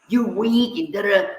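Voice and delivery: high-pitched mock rant; retold angry yelling. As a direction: act out tearing into someone without real volume. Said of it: "I'm screaming and yelling at him".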